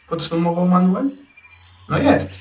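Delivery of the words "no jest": high, hesitant little reply; a small unsure voice, not committing. A narrator's reading. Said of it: "odparł niepewnie Kanczyl". (niepewnie, wysokim, wahającym się głosikiem)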